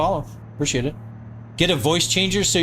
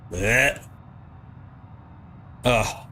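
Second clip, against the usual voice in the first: queasy gagging blech; 5 semitones lower, 6 dB quieter than usual. Real, not acted. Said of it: "That is making me queasy".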